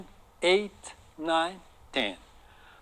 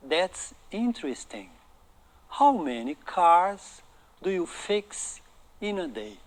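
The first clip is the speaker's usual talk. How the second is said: slow model reading; slower than usual. Shown as a demonstration. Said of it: "vou repetir outra vez a pronúncia".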